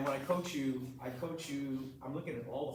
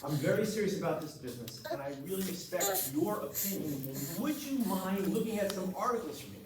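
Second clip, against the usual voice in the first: earnest serious tone; 2 semitones higher than usual. Shown as a demonstration. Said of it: "Talk like this".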